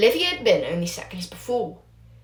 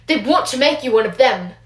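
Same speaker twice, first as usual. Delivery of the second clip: furious huff; 4 semitones higher, 5 dB louder than usual. Acted. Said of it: "Ferrex huffed furiously".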